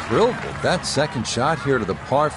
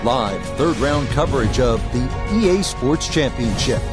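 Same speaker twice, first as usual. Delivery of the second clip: announcer; 2 semitones higher than usual. Acted. Broadcast intro announcement.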